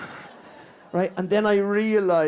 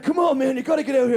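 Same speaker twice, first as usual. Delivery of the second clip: lightly imitated pushy pal, higher pitch; higher, insistent goading mimicry; Des Bishop impression; 5 semitones higher, 3 dB louder, faster than usual. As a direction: urge a friend on, pitched up. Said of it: "he went".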